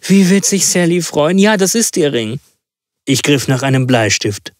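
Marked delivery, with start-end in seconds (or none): 0.1-2.4 put-on high, delighted old woman; exclaiming old woman. A narrator's reading. Old mother recognises her daughter's ring, joyful high exclamation. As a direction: exclaim with joy, pitched well up. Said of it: "rief die Alte".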